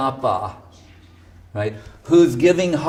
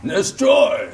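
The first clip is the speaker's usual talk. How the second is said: sharp mock order, higher; mock command; 8 semitones higher than usual. Guru ordering the tea destroyed, mock fierce. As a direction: bark it like a comic tyrant. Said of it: "You know, like".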